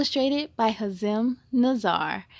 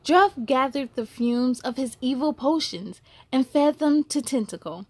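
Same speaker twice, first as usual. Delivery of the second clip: gentle, measured storybook reading; story narration. A narrator's reading. Reading a picture book aloud to young listeners, gentle storytelling. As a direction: read it like a bedtime story to kids.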